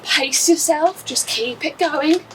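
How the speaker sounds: talking while doing jumping jacks; coaching mid workout, a bit breathless. Real, not acted. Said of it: "If you're doing jumping jacks like me".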